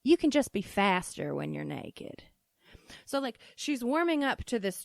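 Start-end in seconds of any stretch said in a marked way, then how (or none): 0.0-2.2 lightly voiced Southern-accented mom; put-on Southern accent. Mom justifies herself to her child, mild Southern accent. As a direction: imitate mom's excuse with a slight twang. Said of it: "this weird accent that I'm choosing".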